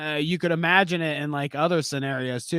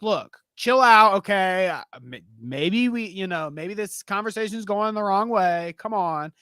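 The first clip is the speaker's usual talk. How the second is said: calm reasoning. Retold or imitated. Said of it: "trying to be reasonable".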